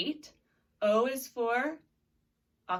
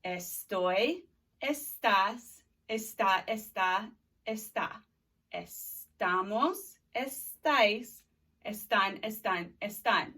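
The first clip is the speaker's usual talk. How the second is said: conjugation drill. Shown as a demonstration. Teacher drilling estar with students. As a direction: chant each form of estar, stretching the vosotros form. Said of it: "now let's do estar".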